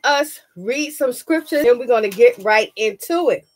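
talking around a cough drop; cough drop in mouth. Real, not acted. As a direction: speak with a lozenge in the mouth. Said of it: "I have a cough drop in my mouth".

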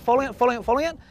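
rising excitement as the fish follows; excited. Real, not acted. Calling out to his mate as the fish chases, rising excitement.

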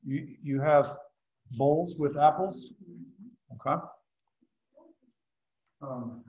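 talking with mouth full; words round a mouthful of bread; cheeks stuffed full. Real, not acted. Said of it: "for talking with my mouth full".

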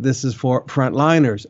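firm stress on "frontliners"; emphatic repeat. Real, not acted. Pastor repeating who it is for, emphatic on "frontliners". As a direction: land firmly on "frontliners". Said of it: "Let me emphasize again".

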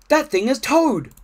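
high, loud realisation; astonished Frog. A narrator's reading. Frog recognising his friend under the mess, astonished. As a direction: exclaim a surprising discovery.

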